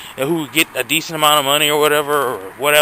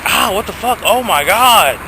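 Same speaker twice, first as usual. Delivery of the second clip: amazed; 6 semitones higher than usual. Retold or imitated. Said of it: "it was like".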